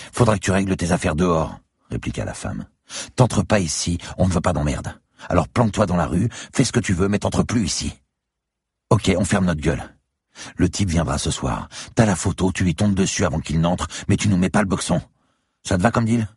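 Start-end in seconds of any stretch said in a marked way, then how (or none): 0.1-1.6 brash barmaid. A narrator's reading. Bar woman sets conditions. 3.2-16.3 higher-pitched, insistent woman's voice; brash barmaid. A narrator's reading. Bar woman setting conditions for the gunman, insistent.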